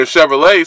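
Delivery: "Chevrolet" ending in a sounded "LET"; spelling pronunciation. Shown as a demonstration. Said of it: "it's supposed to be Chevrolet".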